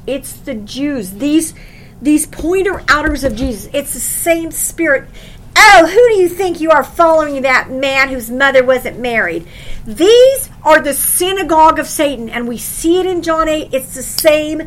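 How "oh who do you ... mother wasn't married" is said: mocking sneer. Preacher mocks Jesus' critics.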